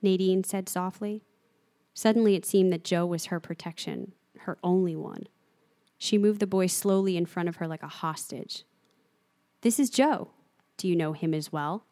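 steady, measured reading of a novel; calm storyteller voice carrying the scene; story narration. A narrator's reading. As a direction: read it like an audiobook narrator. Reads a novel scene aloud.

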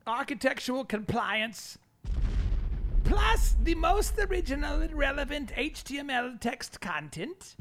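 high, slow nerdy voice. Shown as a demonstration. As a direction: read it like a total nerd. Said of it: "read it in kind of a nerdy voice".

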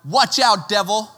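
loud, slow superhero challenge; mock-heroic warning to a villain; spiritual Batman. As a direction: call out the devil with hammed-up bravado. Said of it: "like spiritual bad man".

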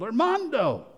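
a father calling into the rubble, lightly yelled; retold yell. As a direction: call the name out as if hearing him. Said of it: "and he yelled".

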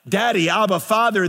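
crying out to father. Shown as a demonstration. Preacher to the congregation, a fervent cry to father. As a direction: lift it into a longing call. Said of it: "by which you cry out".

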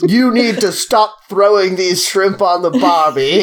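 put-on slow, hammy Australian accent; mock Australian accent, drawn out. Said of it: "the Australian Boston accent".

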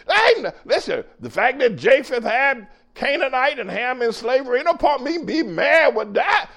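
usual speaking voice

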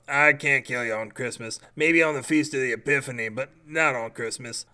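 a grumpy tree politely declining to kill; talking tree. Acted. Tree character voiced.

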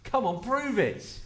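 lightly voiced grumpy disbelief; doubting old man. Preacher voices Zechariah doubting the angel, mildly incredulous. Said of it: "he doesn't believe it".

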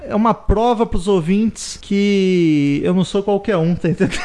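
laughing boast. Real, not acted. Boasting tipsy quiz contestant.

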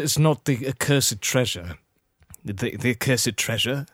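hesitant, mannered pirate captain; Jack Sparrow. Acted. Jack worries over cursed treasure, mannered pirate voice. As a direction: play a wary, rambling film pirate. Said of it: "Jack Sparrow".

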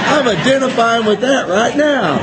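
real laughter at his own words. Real, not acted. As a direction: let the laugh take over the line. Repeats line, laughing harder.

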